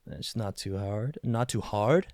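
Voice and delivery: casual general American accent. Shown as a demonstration. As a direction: put on an easy American drawl. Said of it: "You've got your general American accent".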